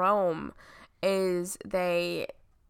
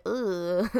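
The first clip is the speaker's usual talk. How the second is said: disgusted groan. Acted. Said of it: "and you're like".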